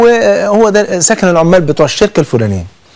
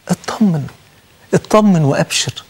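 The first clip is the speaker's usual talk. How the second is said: reassuring; 4 dB quieter, slower than usual. Retold or imitated. Preacher reassures crying relative.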